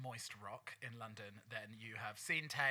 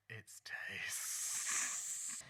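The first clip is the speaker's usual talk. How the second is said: whisper; 5 semitones lower, 4 dB quieter than usual. Acted. Dramatic announcement of a guest.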